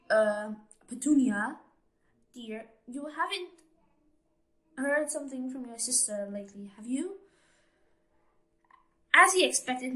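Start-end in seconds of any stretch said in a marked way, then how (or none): 0.1-7.2 nervous. Acted. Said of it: "he cleared his throat nervously".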